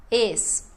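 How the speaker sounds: ESPAGUETE split into es, pa, gue, te; syllable by syllable. Shown as a demonstration. Teacher showing four syllables in espaguete, syllable by syllable. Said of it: "quatro sílabas também".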